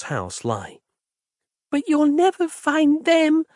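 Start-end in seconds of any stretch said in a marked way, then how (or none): 1.7-3.4 put-on much higher, slow tearful child's voice; a small girl pleading through tears; voiced girl on the verge of sobbing; crying little girl. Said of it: "cried the girl suddenly".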